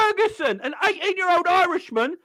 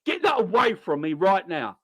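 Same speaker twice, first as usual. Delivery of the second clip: scared Matip; 5 semitones lower than usual. Retold or imitated. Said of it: "He's like".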